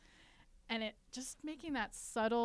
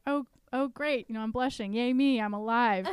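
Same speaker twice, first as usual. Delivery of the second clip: mock cheer; 3 semitones higher, 6 dB louder than usual. Telling the guest how she cheers her own blushing, playful mock cheer. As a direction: cheer herself on for blushing, tongue in cheek.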